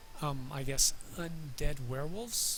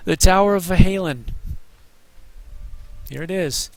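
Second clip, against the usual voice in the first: hiccuping through the words; with hiccups; 3 semitones higher, 12 dB louder than usual. Real, not acted. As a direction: talk between hiccups. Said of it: "Excuse my hiccups".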